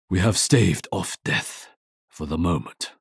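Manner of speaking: a tired warrior shouting over the battle; loud, grim relief. Acted. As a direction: call it out firmly, still on guard. Archer after a fight.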